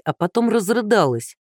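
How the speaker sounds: plain reading voice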